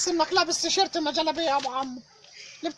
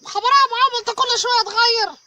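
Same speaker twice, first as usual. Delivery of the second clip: surprised outburst; 5 semitones higher, 6 dB louder than usual. Acted. High, freaked out by clothes.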